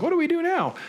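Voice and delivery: high, puzzled whine of someone stuck indoors; bored people at home. Retold or imitated. People stuck at home asking each other, in a high puzzled whine. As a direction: ask it like a bored housemate with nothing left to do. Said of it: "and going".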